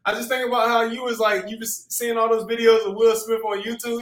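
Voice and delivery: ordinary talk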